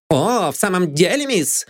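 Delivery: high, outraged retort; indignant. A narrator's reading. Maid Anne outraged by Lydia. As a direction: bristle with outrage. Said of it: "возмутилась Энн".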